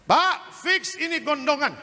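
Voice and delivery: a hint of a doctor giving the diagnosis; doctor's voice. Pastor retells the doctor's diagnosis in a lightly voiced doctor tone. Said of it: "dokter bilang".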